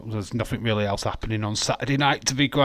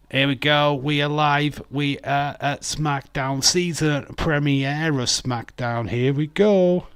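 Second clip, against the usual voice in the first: higher and louder, stretched-out hype; excited we are live; 5 semitones higher, 5 dB louder than usual. Real, not acted. Host telling viewers the show is live, loud and excited. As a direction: call the show going live like an announcer.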